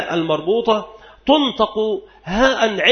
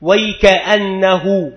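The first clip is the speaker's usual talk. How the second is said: slow example; much slower than usual. Shown as a demonstration. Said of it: "ويل أمه".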